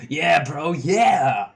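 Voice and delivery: goofy honking clown troll; silly clown. Acted. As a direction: honk it like a giddy clown. Gamzee cheering.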